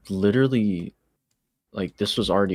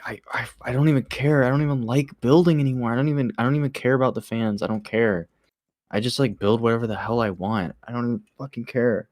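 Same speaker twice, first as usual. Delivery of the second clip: retold stressed-out rant; 3 semitones higher, faster than usual. Retelling a stressed-out friend's outburst, mock exasperated. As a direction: imitate someone stressed out and done caring. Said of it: "he was just so stressed out".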